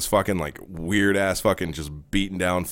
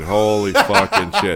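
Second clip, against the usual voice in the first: laughing; 4 dB louder, slower than usual. Real, not acted. Laughing at the memory.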